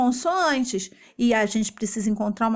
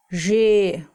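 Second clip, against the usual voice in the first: GE-LA-TI-NA, louder, with long pauses between syllables; 5 dB louder than usual. Shown as a demonstration. Teacher dictating syllables to copy, GE-LA-TI-NA widely separated. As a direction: dictate GE-LA-TI-NA one firm syllable at a time. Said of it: "a mesma coisa aqui".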